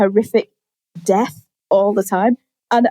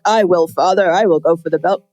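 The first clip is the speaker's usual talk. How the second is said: lower, solemn mock-heroic vow; earnest son; 5 semitones lower than usual. Zac Efron's character answering his dad, low and solemn. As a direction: puff up like a dutiful son.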